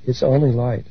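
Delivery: lightly voiced angel speaking gently; gentle angel. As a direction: say it kindly and simply, barely voiced as the angel. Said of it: "looks at us very gently and says".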